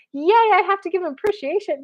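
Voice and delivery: high-pitched, exaggerated yay; hammed-up peppy praise; mock cheer. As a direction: parody forced enthusiasm. Mocking over-the-top show of appreciation.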